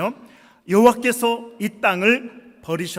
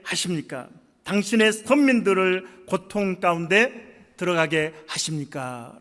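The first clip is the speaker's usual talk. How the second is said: raised, insistent protest to God, easing at the close; acted reproach; 3 semitones higher, 4 dB louder than usual. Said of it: "하나님에 대한 원망과 불평". (원망 섞인 항변조로 목소리를 높여)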